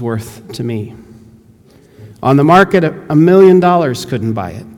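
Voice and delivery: lightly voiced old diver refusing to sell; firm old pearl diver. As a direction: draw yourself up and refuse to sell. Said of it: "stiffening his whole body".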